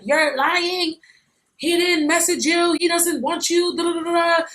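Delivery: high, mocking take on the jealous friend. Friend accusing her of lying, mimicked high.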